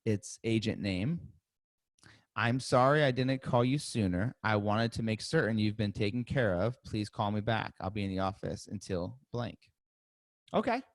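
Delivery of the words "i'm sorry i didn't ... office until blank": unenthused voicemail read straight off the page; blah read. Shown as a demonstration. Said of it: "I said it very blah".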